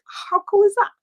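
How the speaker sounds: a put-on, over-bright delight; gushing excitement. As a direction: gush like you're thrilled for him. Gushing reply to his travels.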